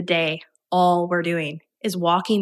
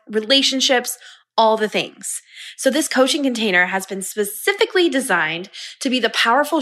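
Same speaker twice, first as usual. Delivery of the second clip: upbeat promo read for a coaching offer. Acted. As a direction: sell the program smoothly, like a recorded ad.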